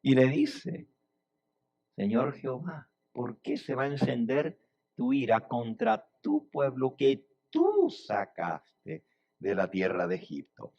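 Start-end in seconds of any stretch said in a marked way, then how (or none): 1.9-10.7 restrained plea, with "tú" held long and stressed; Moses pleading back. Acted. Moses answering God de tú a tú, pointed plea. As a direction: hand it back quietly, leaning on "tú". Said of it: "Moisés le devuelve a Dios".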